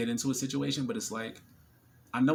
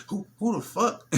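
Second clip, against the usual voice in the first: higher, louder suspicious "who"; mock the guys glaring back; hostile dudes; 10 semitones higher, 4 dB louder than usual. Her table of men, hostile. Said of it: "they all were like".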